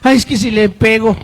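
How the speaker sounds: indulgent mother. Acted. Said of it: "Y la mamá".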